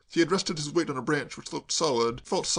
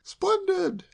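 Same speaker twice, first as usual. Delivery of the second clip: much higher, louder cry of praise; shout; 5 dB louder than usual. A narrator's reading. Kay calls up to Sam in the tree, shouting. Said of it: "shouted Kay".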